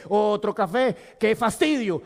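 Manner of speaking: slow, fed-up groan of a line; mock tired grumble; bored inner voice. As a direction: drag it out with weary annoyance. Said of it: "la voz interior me dice".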